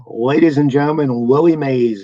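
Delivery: a light, drawn-out ballpark announcer intro; Lindsey Nelson drawl. Retold or imitated. Broadcaster introducing the player to the stadium crowd, lightly drawled announcer voice. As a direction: stretch the words like a stadium host introducing a legend. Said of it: "in his classic drawl".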